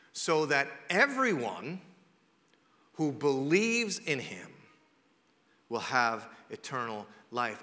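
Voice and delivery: very slow, phrase by phrase with long pauses; deliberately slow. Real, not acted. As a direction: spell it out slowly, letting each phrase land. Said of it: "here's why I'm saying this slow to you".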